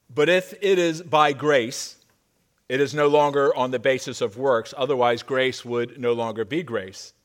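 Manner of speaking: scripture reading. Acted. Pastor reading Romans to the congregation, measured and strong. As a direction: read the passage with weight to the room.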